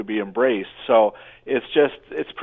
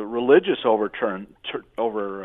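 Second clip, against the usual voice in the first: stumbling over words with a numb mouth; numb from the dentist; 3 semitones lower than usual. Real, not acted. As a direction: mouth not working after dental work. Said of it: "My mouth doesn't work".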